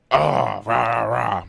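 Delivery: loud mock cheering; imitating dad. Dad cheering mom on, mock hype. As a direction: hype her on like a rowdy fan. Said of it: "He was, he was like".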